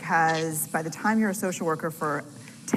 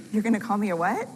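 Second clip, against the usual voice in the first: insecure disbelief; 4 semitones higher, 4 dB louder, faster than usual. Retold or imitated. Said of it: "insecure part of me was like".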